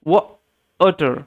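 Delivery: ওয়াটার stretched very slowly, w rounded; slow, careful water. Shown as a demonstration. Teacher modelling water slowly for students. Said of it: "এরকমভাবে এটার উচ্চারণটা করবেন".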